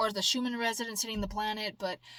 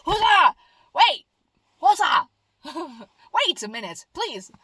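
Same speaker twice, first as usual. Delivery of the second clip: overwhelmed pleading; 8 semitones higher, 5 dB louder than usual. Retold or imitated. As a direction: beg for time like a wobbly baby deer. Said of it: "and I'm like".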